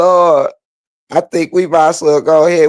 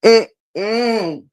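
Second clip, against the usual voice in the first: crying laughing; 4 semitones higher than usual. Real, not acted. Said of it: "I'm crying now".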